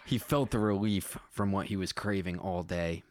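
measured read-aloud storytelling; story narration. A narrator's reading. Writer reading own space story to listeners, measured narration. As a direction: read it out plainly as prose.

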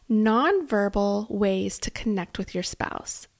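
"nonverbal" leaned on hard and drawn out, the rest slowed; slow down and press the word "nonverbal" so it lands; stress on nonverbal. Shown as a demonstration. Host telling listeners the fourth tip, leaning on "nonverbal". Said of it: "I really want to stress nonverbal".

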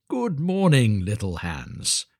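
lightly voiced patronising miller, falling away on the name; hearty miller greeting. Miller arriving to visit little Hans, a measured hearty greeting.

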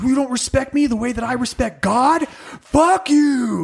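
high, indignant put-on voice; mock offended white person. Mocking white people taking offense, high indignant voice. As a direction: puff up with petty outrage.

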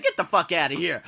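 half-laughing mock outrage; cussing her out between laughs; laughing retold cussing.

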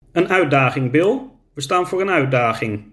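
put-on elderly brothers. Old brothers talking.

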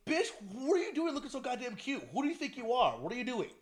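lightly mimicked sassy fake outrage; playful mock scolding. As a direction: imitate a coworker's sassy outburst. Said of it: "it was like the way he said".

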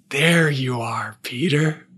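slow, wondering discovery; tender recognition. Retold or imitated. Lost Boy finds Peter in his face, tender recognition. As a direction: let it out slowly, recognizing a lost friend. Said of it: "one of the Lost Boys takes Peter's face".

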